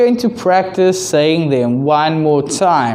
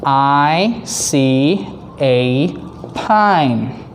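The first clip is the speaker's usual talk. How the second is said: put-on broad singsong kids theatre; much slower than usual. Shown as a demonstration. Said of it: "Number two".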